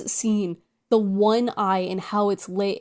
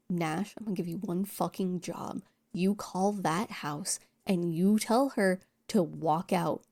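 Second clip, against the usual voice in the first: menacing lieutenant; 2 semitones lower, 5 dB quieter than usual. Retold or imitated. Lieutenant threatening Nash, quoted.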